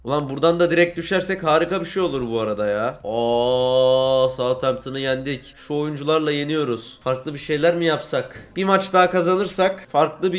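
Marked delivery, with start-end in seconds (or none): 3.0-5.5 dragged mock surprise. Real, not acted. Unexpected win over Southampton.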